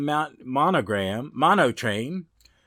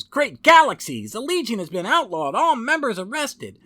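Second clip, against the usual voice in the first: much higher and louder, a stunned superhero cry; shocked hero exclaiming; 11 semitones higher, 6 dB louder than usual. Acted. Superboy discovering the Legion has been outlawed, shocked and loud. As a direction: belt it out like a comic-book hero who can't believe his eyes. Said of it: "Superboy says".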